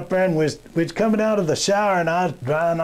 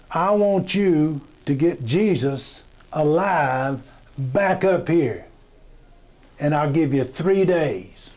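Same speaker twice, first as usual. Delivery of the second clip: slow stern father; slower than usual. Retold or imitated. God gives his son an order.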